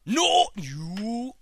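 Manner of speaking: high, loud wail of despair; anguished cry. Real, not acted. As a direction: cry out as the line drops. The call hangs up on him.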